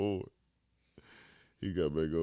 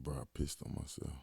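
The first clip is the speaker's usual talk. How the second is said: sheepish confession; 15 dB quieter, faster than usual. Retold or imitated. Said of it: "He said".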